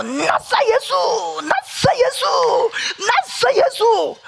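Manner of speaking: cling to the words in terror, crying them out slowly; frightened rebuke. Retold or imitated. Frightened elder rebuking spirits. (겁에 질려 느리게 외치는 기도)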